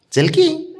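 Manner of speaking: very high sing-song plea; pleading call. Real, not acted. Father pleading in a high voice for his pet to come.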